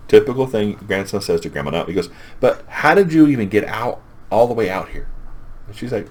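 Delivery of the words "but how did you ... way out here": higher opening, settling toward the end; puzzled questioning. Retold or imitated. Grandson asks grandma about her trip out, mildly baffled. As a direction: ask it in mild mock bewilderment.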